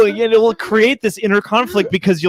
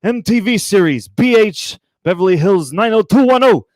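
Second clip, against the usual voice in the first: put-on raspy old senator voice, louder; Bernie Sanders impression; 4 semitones higher, 5 dB louder than usual. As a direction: channel a ranting Vermont senator. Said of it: "are you doing the Bernie Sanders?".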